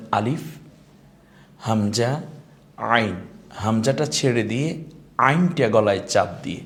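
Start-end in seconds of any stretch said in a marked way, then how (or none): 0.1-3.1 আলিফ, হামজা, আইন pronounced as Arabic letter names. Shown as a demonstration. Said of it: "বলেন". (আরবি হরফের উচ্চারণ)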